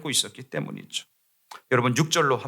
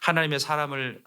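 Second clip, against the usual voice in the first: usual speaking voice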